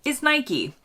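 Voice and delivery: "Nike." said NY-kee, two syllables; "Nike." as NY-kee, like the goddess; goddess name Nike. Shown as a demonstration. Host gives the Greek goddess's name, plainly. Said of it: "the name is based on a Greek goddess, and her name".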